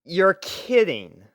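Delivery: slow, loud, disbelieving; you can't be serious; incredulous. Acted. Narrator reacts to the girl not knowing how to dress, slow disbelief.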